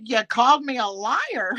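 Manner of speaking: quoting while laughing. Retold or imitated. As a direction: laugh through the quote. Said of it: "Natasha said".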